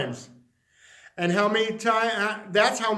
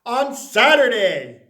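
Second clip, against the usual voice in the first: loud, higher, slow invitation; grand announcement; 3 semitones higher, 8 dB louder, slower than usual. Acted. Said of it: "it said".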